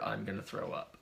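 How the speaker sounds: hushed retelling of a queasy confession; retold whisper. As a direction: softly imitate a private whisper. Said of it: "and she whispered".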